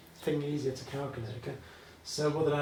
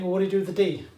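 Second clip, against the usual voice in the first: puzzled student; 4 semitones higher, 5 dB louder, much faster than usual. Retold or imitated. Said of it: "now, you might think".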